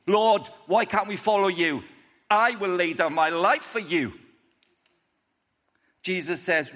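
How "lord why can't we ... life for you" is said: lightly voiced bold declaration; a touch of cocky heroics; cocky disciple. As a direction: proclaim it a little louder, with bravado. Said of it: "Here he is, Rocky".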